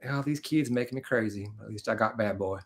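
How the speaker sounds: light imitation of a country singer-style accent; weary mom with a touch of a country singer's accent. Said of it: "me doing a country singer accent".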